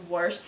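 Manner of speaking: "warsh" with an R before the sh; boss's pronunciation. Retold or imitated. Quoting a boss from Vegas, "warsh" with an intrusive R. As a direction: add an R to the vowel of "warsh". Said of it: "he says".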